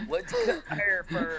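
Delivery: whispered mock Rapunzel. S2 repeats Rapunzel gag.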